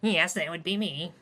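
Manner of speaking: campy soprano voice. Acted. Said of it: "campy, unintimidating soprano voice".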